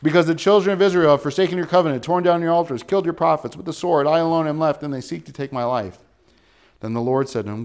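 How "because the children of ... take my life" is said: repeated complaint. Acted. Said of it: "Didn't we hear this already?".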